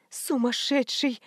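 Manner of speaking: тихо и медленно; выдохнуть едва слышно; шёпотом. A narrator's reading. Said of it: "шептала она". (мать уходит, медленно шепчет)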